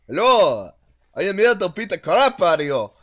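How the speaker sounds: loud, hammed-up creature threat; silly monster voice. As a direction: boom it out as a goofy card monster. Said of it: "what would be the voice of this?".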